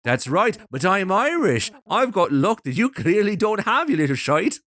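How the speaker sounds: a hint of an Irish lad doll; lightly voiced Irish doll. Voicing the doll's lines.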